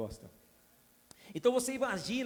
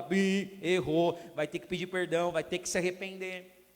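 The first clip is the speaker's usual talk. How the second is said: louder firm reprimand; a touch of a strict inner voice; stern warning; 4 dB louder than usual. Retold or imitated. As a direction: scold like an alarm going off. Holy Spirit rebukes the preacher.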